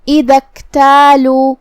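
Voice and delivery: slow, drawn-out tajweed recitation; Quran recitation demo. Shown as a demonstration. Teacher demonstrates joined reading to students, slow recitation. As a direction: recite it slowly, joining the words. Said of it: "ہم یہ آیت کو ساتھ میں پڑھیں گے".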